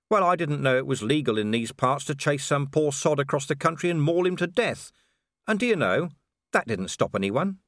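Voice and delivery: a lightly voiced weary watchman, bitter; tired copper venting at the official; Vimes. Vimes bitterly lecturing the local official in a lightly voiced role.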